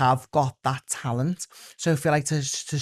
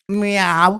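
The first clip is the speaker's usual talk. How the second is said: loud, higher Scouse cat meow; Gladys; 6 semitones higher, 7 dB louder than usual. Acted. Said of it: "it's meowing in a Scouse accent".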